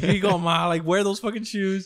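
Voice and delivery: loud pushy handing over; exasperated. Retold or imitated. Son hands mom the shoes he bought, loud and exasperated. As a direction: shove the shoes at her. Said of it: "I'm like".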